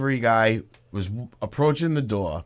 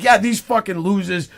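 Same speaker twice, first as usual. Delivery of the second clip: higher-pitched retold grumble; mock angry gripe; 6 semitones higher than usual. Fan complaining to the cops, mock anger. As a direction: imitate a fan too mad to stop. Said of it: "He was so fucking mad".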